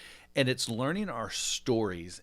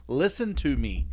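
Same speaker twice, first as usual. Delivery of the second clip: stern dad; 4 semitones higher, 7 dB louder, slower than usual. Retold or imitated. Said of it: "like, listen".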